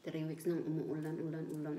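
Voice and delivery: speaking with food in mouth; words muffled by chewing; talking while chewing. Real, not acted. Seen 4: Ate spoonful at -4; lips look closed and chewing while speaking.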